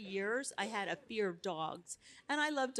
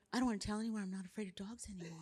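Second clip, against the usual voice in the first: laughing; faster than usual. Retold or imitated. Laughs at own secret.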